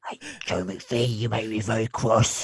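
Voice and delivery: soft, slow mock British accent; playing a prim Brit, lightly. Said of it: "with a British accent".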